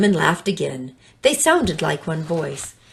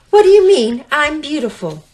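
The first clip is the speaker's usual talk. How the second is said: offended serpent; 8 semitones higher, 6 dB louder than usual. Acted.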